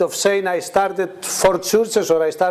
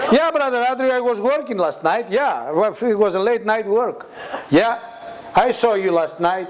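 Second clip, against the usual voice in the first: mock pious Christian; 3 semitones higher than usual. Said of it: "The Christian on me now raised up".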